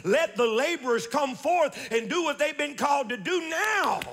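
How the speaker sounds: driving, emphatic sermon delivery; fervent preaching. Real, not acted. Preacher urging the congregation to work for the kingdom now, fervent preaching. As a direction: preach it in rolling, urgent phrases.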